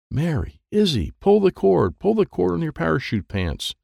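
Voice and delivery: high-pitched urgent shout of orders; urgent calling out. A narrator's reading. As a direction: call across to falling friends. Dwayne calling out orders while falling.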